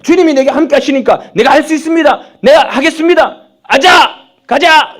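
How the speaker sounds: loud, high gung-ho believer; zealous declaration. Acted. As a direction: charge ahead with overconfident zeal. Acting over-confident believer. (의욕에 넘쳐 외치듯)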